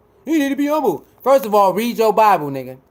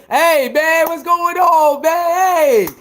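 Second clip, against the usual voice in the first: fake friendly greeting; 5 semitones higher than usual. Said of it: "Soon as they see him".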